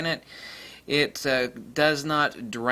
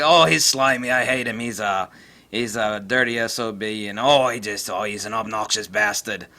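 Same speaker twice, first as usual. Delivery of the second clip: lightly put-on British grumbling, loud at the start; mock outraged British complainer; mock British griping; 2 semitones lower, 4 dB louder than usual. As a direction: mimic indignant Brits on a forum with a hint of accent. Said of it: "that's, uh, Australian. That's not British".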